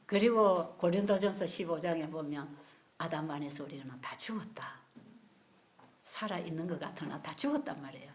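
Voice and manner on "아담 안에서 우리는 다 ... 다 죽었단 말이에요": hushed scripture whisper. Real, not acted. Preacher whispering verse. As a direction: whisper it gravely.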